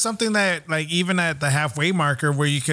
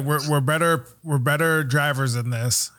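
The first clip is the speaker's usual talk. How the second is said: mildly downcast quote of a driver; bummed retelling; 3 semitones lower than usual. Retold or imitated. Host quoting a driver let down by his class, bummed. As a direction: retell his disappointment a little low. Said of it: "he was, he was bummed".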